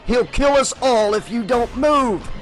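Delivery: loud, high clenched-teeth shout; Breaker shouting. Acted. Breaker shouts at frozen Geraldine, teeth clenched. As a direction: bark her name through clenched teeth. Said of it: "Breaker shouted".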